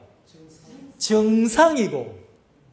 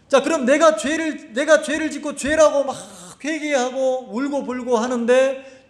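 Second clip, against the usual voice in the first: ordinary delivery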